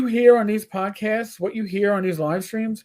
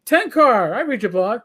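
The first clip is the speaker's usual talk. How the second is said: higher, louder, gushing recognition; excited fan; 4 semitones higher, 5 dB louder, slower than usual. Retold or imitated. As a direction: imitate a fan spotting a name tag. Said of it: "somebody looks at your name tag and goes".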